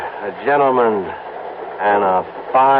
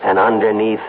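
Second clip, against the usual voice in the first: dreamy pitch. Acted. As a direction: paint her like a dream for Harry. Pitching his dream girl ad.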